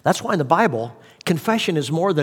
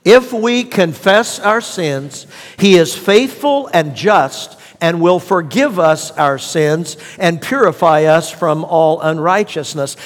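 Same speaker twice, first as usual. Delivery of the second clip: slow scripture recitation; slower than usual. Shown as a demonstration. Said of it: "Let's repeat that scripture out loud together".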